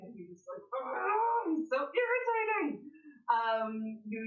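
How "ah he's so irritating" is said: high, loud exasperated groan into a complaint; hammed-up exasperation, much higher and louder; annoyed outburst. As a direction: vent exaggerated irritation at full pitch. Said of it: "to say that you're annoyed".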